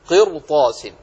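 "قرطاس" said loud with a heavy ر. Shown as a demonstration. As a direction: thicken the ر in "قرطاس", no light r. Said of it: "تفخم ولا ترقق". (تفخيم الراء في "قرطاس")

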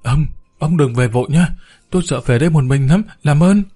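quick, begging plea rising at the end; pleading. Acted. Frightened maid begs the neighbour to stay, a mild plea. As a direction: beg him not to leave. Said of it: "bà Hiên cố gắng năn nỉ".

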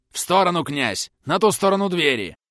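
captain shouting at the prince to move; shouted order. A narrator's reading. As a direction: shout the order over the fight. Captain orders during fight.

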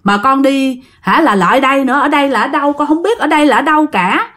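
scared pleading. Retold or imitated. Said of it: "Bà ngoại mới nói rằng".

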